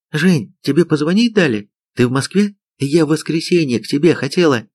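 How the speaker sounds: lightly acted high girlish eagerness; excited girlfriend. A narrator's reading. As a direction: voice his girlfriend, lifted and eager. Girlfriend surprised by his phone call.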